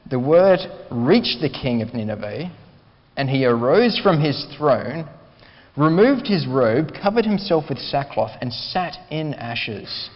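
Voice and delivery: emphatic pulpit reading, building then easing down; scripture reading. Acted. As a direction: read the passage out like a solemn proclamation. Read it again together.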